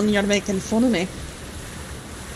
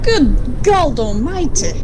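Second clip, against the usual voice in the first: surprised exclamation; 2 semitones higher, 4 dB louder, slower than usual. Real, not acted. Sudden deep shoreline seen.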